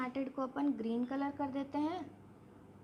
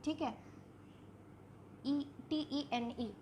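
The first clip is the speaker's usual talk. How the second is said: slow, softer letter-by-letter dictation; spelling out letters; 8 dB quieter, slower than usual. Shown as a demonstration. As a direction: spell पी सी एच वाई ई टी ई एन ई slowly, letter by letter. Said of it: "अगर हम पैचिटिन का spelling देखें". (शब्द के अक्षर धीरे-धीरे बोलकर लिखवाती हुई)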